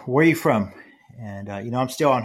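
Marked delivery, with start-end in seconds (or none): 0.1-0.7 higher, louder mock questioning voice; imitating the young woman. A stranger asks him, mock higher pressing voice. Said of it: "she asked me".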